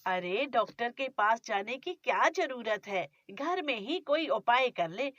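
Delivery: scolding, grumbling mother-in-law; a nagging miser of a mother-in-law; stingy mother-in-law. Acted. Mother-in-law refuses doctor.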